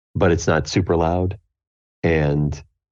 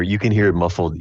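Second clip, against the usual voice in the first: usual speaking voice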